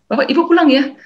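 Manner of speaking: cheerful counselor. Retold or imitated. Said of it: "Lalu Pak Vincent bilang".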